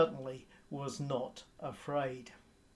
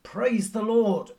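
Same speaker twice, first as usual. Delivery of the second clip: loud, slow, high retold shout of praise; 6 semitones higher, 8 dB louder, slower than usual. Elderly lady shouting praise from her front porch, loud and slow. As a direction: call it out from the porch, drawn out. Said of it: "stand on the front porch and shout".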